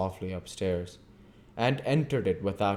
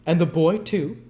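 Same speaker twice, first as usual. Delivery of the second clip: put-on old Fagin prying; 9 semitones higher, 8 dB louder than usual. A narrator's reading. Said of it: "said the Jew".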